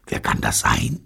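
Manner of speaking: whispered question, rising at the end; anxious whisper. A narrator's reading. Neil wondering who is at the door, whispering.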